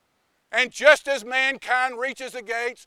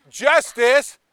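louder, higher complaint; pleading insistence; 3 semitones higher, 6 dB louder than usual. Acted. Love and mercy pleading to Wisdom, loud and higher. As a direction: insist they belong. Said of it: "Love and mercy sit there and go".

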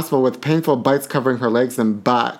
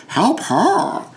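much higher, pleading help her; pleading catchphrase; 8 semitones higher than usual. Pretend. Host pleading for a singer in a high wail. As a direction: beg it in a wailing voice.

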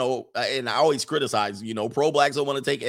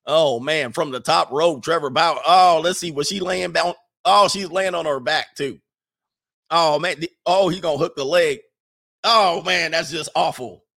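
lightly voiced ringside commentator, louder; mock wrestling commentator; 3 semitones higher, 5 dB louder than usual. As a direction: call it like a pretend wrestling match.

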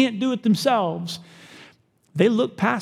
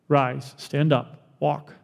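slow commanding Jesus; 4 semitones lower, 3 dB quieter, much slower than usual. Acted. Jesus heals the paralytic.

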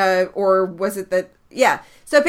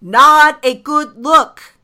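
sarcastic; 6 semitones higher, 9 dB louder, much slower than usual. Real, not acted. Sarcastic dig at the league.

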